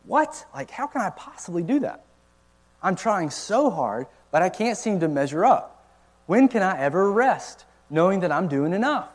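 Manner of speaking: high, pleading exasperation; discouraged believer voicing frustration, pitched high; exasperated inner voice. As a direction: voice the weary striver's despair. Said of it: "they think".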